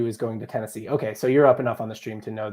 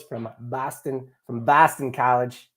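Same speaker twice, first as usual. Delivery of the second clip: hammed-up Boston accent on the name; over-exaggerated Southie-style Boston; slower than usual. Shown as a demonstration. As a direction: put on a stereotypical Boston accent. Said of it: "How's my Boston accent?".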